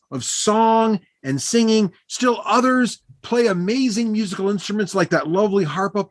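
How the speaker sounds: high-pitched, showy storyteller; self-important halfling bard. Acted. Bard boasting to new friends of his skill, high grand voice. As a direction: play the proud little bard, pitched high.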